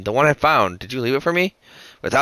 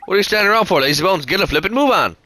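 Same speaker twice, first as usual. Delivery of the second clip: hammed-up Drippy; 6 semitones higher than usual. Sidekick telling Timmy to pull himself together, higher. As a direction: chivvy the lazy cat along. Drippy scolds lazy Oliver.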